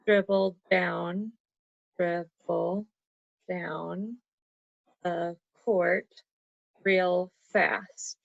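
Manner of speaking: slow, each beat of dribble down the court set apart; syllable counting. Shown as a demonstration. Teacher counting out a haiku line for Caden. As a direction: tap out the beats slowly. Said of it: "So you could say".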